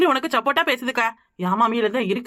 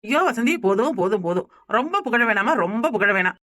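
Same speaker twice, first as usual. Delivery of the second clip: teasing mock modesty; 2 semitones lower than usual. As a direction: playfully protest too much praise. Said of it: "என்னடி கிண்டல் பண்றியா".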